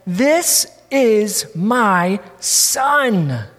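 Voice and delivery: slow, solemn voice from heaven; voice of God. Acted. Preacher voicing God from heaven, slow and solemn. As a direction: lay each word down slowly as God speaking.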